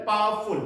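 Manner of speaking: "powerful" run together as "paar-ful"; correct pronunciation. Shown as a demonstration. Teacher models the word for students, "powerful" as "paar-ful". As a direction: say "powerful" with the middle w softened away. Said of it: "पावरफुल नहीं होता है इसका pronunciation".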